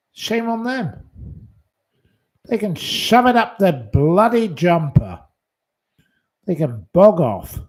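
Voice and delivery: real anger at the complainers; angry outburst. Real, not acted. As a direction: tell them where to shove it. Ranting at viewers who complained.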